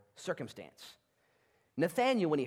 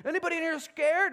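high, loud call to the crowd; 13 semitones higher, 6 dB louder than usual. Acted. Gideon calling out to his army, loud. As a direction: shout it across the camp.

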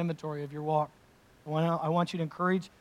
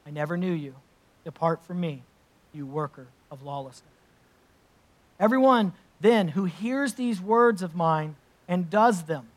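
measured, solemn reading of Scripture; 4 dB louder than usual. Acted. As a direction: read it aloud to the congregation with weight. Reads the Sermon on the Mount.

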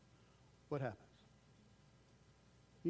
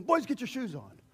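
simple request; 7 semitones higher, 6 dB louder than usual. Retold or imitated. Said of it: "Why not just simply".

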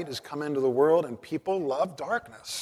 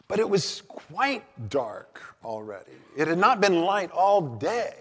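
dramatic reading; 5 semitones higher, 6 dB louder than usual. Acted. Preacher reads Dickens' bleak opening aloud, dramatically. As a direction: read Dickens aloud to set a bleak scene. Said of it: "listen to how Dickens describes the scene".

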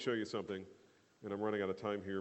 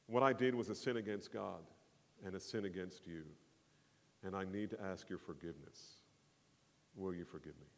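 humble confession; 3 semitones lower, 4 dB quieter than usual. Shown as a demonstration. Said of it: "to say something like this".

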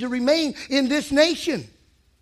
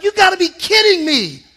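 laughing disbelief; 6 semitones higher, 6 dB louder than usual. Pretend. Mocking incredulous reaction.

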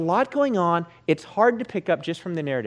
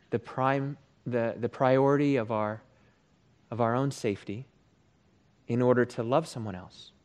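measured, pausing prayer voice; 4 semitones lower than usual. Real, not acted. Pastor asking God for courage to disciple others, prayerful.

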